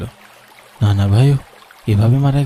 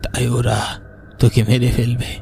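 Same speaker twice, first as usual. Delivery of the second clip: a lightly voiced old grandfather, softer and grave; old grandfather's warning; 4 dB quieter than usual. Grandfather ghost warns the boy. (নানা ভাইয়ের চাপা, গম্ভীর সতর্কবাণী)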